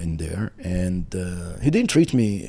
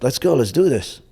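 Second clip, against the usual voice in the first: raised-pitch, mildly heated urging; angry challenge; 5 semitones higher than usual. Retold or imitated. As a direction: re-enact an impatient teen itching to fight. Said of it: "I'm getting even more angry".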